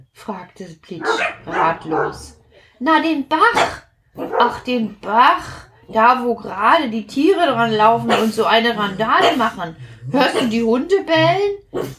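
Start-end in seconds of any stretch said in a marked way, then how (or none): 2.8-11.9 lightly voiced drop. Platsch explains the brook.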